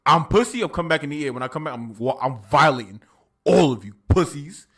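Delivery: brash Dracula. Retold or imitated. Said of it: "he's like".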